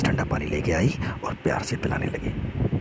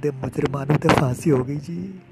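high-pitched acted whimpering plea; tearful protest; 7 semitones higher than usual. A narrator's reading. Gulati argues with the woman threatening him, tearful protest. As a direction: protest as if crying, voice pitched well up. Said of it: "Gulati ने रोते रोते कहा".

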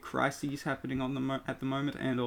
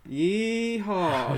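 cowboy voice; 6 semitones higher than usual. Pretend. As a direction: holler it like a cowboy. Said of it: "the cowboy voice".

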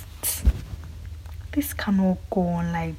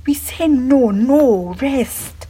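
loud protest; 5 semitones higher, 6 dB louder, much slower than usual. Real, not acted. Protesting rape, crying out refusal.

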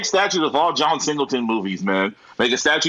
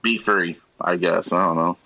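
low musing; 6 semitones lower than usual. Retold or imitated. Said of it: "I was thinking, like".

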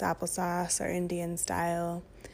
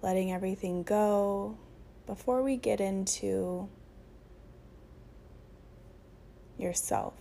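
unhurried meditation voice with long pauses; guided meditation. Acted. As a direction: guide them gently into breath and stillness.

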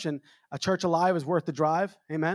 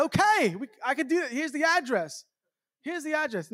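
nervous squeak; 9 semitones higher than usual. Retold or imitated. Flustered reply to stranger.

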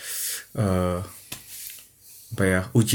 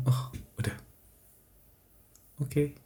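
numb acceptance; 11 dB quieter than usual. Acted. Acting numb first reaction after breakup.

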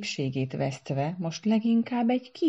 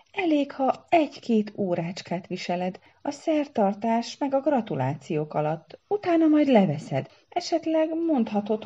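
high, climbing, pleading voice; anxious coaxing; 7 semitones higher than usual. A narrator's reading. Para coaxing Szara to wear the headdress, anxiously pleading. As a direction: coax ever higher, almost squeaking. Groom pleading with offended bride.

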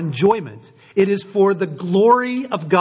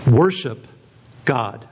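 simple and profound; 6 semitones lower, slower than usual. Retold or imitated. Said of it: "he says very simply".

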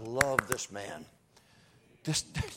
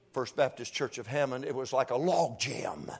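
ordinary talk

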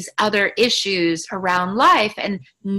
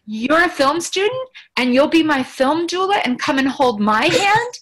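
pleading, pitched up and louder; a high, eager ask to a new friend; excited plea; 6 semitones higher, 3 dB louder than usual. Retold or imitated. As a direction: beg her eagerly to come along. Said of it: "I was like".

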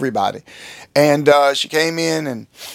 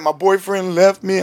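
mildly imitated crying woman, slow and raised; mock upset, words drawn out slowly; retold tearful complaint; 5 semitones higher than usual. Crying woman confides in her pastor, mildly imitated upset. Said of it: "I'm talking, she's crying".

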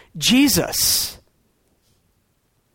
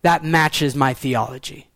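smug box-ticking; 6 semitones lower than usual. Retold or imitated. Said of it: "And we're like".

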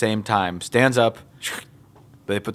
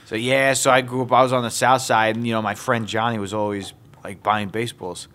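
lightly mimicked New York storyteller; New York accent. Documentary subject recalling a childhood friend, New York accent. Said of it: "New York accents".

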